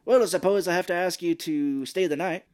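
hammed-up begrudging invitation; escalating grudging offer. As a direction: step it up, put-upon and emphatic. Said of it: "how she keeps escalating".

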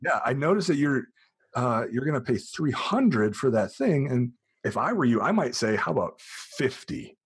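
slowed, sweet-talking tip to two tourists; friendly helpful stranger. Retold or imitated. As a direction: ease in gently like you're letting them in on a secret. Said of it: "I say".

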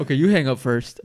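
coy lovers' phone goodbye; sweetly tease, you hang up first; giggly late night call. Pretend. Couple-style call ending mock.

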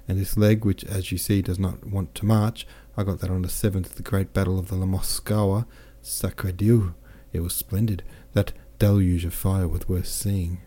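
lightly voiced, lively boastful officer; a hint of a jovial soldier bragging; cheerful French captain. Captain boasts of his wounds to Pierre, lightly voiced jovial.

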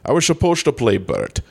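lightly slurred Scottish star, s turning to sh; comic impression with slushy s sounds; Sean Connery. Promising co-hosts a comeback, hammed-up Connery impression. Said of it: "All right, Mister Connery".

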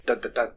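low, soft "dun dun dun"; half-hearted dramatic cliffhanger sting; mock suspense sting. Mock dramatic sting after plot reveal.

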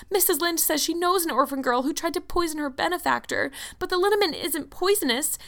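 high-pitched, tearful outpouring; sobbing lament. A narrator's reading. Anne laments to Marilla that she is disgraced, sobbing. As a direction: pour out the disgrace in a high wail. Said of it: "sobbed Anne without looking up".

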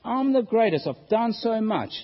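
lightly acted royal bragging; boastful Solomon. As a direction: brag like a self-satisfied king. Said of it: "Solomon saying".

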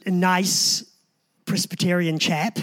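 light English accent for a proper chap; a touch of proper English; mock English accent. Shown as a demonstration. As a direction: slip lightly into prim English. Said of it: "I do that English thing".

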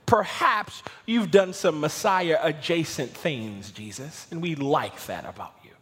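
hammed-up hedging, leaning on the maybes; mock equivocating. Preacher parodies what Peter did not say, mock equivocating. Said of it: "He didn't equivocate".

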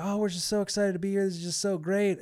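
high, quick, overjoyed; fast, high-pitched excited chatter; giddy gushing. Retold or imitated. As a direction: bubble over with delight. Couple gushes to first mate.

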